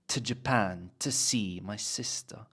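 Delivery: "to" reduced to a quick soft "tuh" before "Japan" and "see"; weak to. Shown as a demonstration. Teacher modelling "to Japan", softly reduced "to". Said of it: "and the weak form is".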